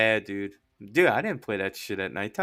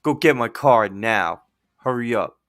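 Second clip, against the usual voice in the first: show-off's order; 3 semitones lower, 5 dB louder than usual. Retold or imitated. Guest showing off for two girls, curt order. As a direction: imitate a guest ordering staff about. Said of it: "he was trying to show off".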